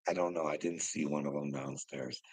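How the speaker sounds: ordinary delivery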